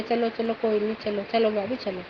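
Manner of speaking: softly, easing her along without any anger; a quiet uncle reassuring her, no fuss; calm and gentle. Retold or imitated. Uncle gently tells his sister-in-law to come along, softly calm. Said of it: "मैंने बड़े आराम से".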